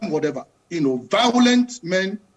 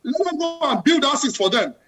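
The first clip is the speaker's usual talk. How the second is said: passionate, raised-pitch demands; impassioned; 3 semitones higher than usual. Real, not acted. Panelist demanding housing and hospitals for taxpayers, impassioned. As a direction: press each demand on the leaders. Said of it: "I can tell from the passion in your voice".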